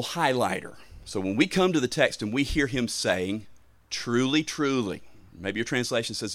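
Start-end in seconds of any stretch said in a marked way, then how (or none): 3.9-5.0 quoting Jesus with measured emphasis on each "Truly"; emphatic quoting. Retold or imitated. Preacher quoting Jesus to the congregation, emphatic. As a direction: give each "Truly" its own deliberate weight. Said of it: "he is giving emphasis to a point".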